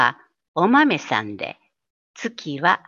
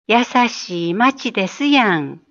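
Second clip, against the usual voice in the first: Osaka dialect ending. Shown as a demonstration. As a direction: add the Osaka やん gently at the end. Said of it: "と言います。". (大阪弁で語尾にやんをつけて)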